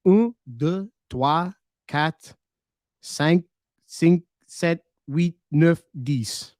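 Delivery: counting "Un, deux" to "dix" in French. Shown as a demonstration. Streamer answering a viewer by counting to ten in French. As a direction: show off counting in French from memory. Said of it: "Let me try".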